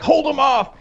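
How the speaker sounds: high put-on cartoon voice with a laugh; imitating Rick. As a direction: toss the order off like a mad grandpa. Rick voiced in retold scene.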